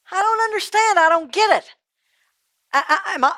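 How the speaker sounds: high-pitched, agitated confusion; bewildered protest. Acted. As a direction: stammer in disbelief at the verdict. Rich man bewildered, protesting.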